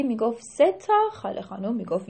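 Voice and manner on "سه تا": higher, louder stubborn cry; arguing shout. Acted. Ali Gholi arguing. (فریاد لجوجانه، بلند و زیر)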